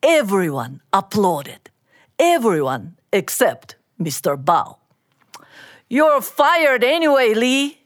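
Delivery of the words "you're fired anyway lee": mild hiss. Acted. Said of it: "he hissed".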